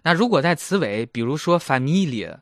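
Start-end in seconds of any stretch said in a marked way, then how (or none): 1.6-2.4 "familie" ending in an ee-uh glide; word-final "ear" sound. Shown as a demonstration. Teacher gives example, "familie" ending in ee-uh. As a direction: end "familie" on -lee-uh. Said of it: "会发ear的音".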